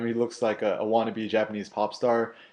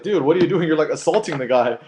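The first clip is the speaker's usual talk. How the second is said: louder mock shout; Neil's retold shout; 5 semitones higher, 6 dB louder than usual. Neil pushing the attacker away, retold louder shout. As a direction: step in and call it out. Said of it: "He's like".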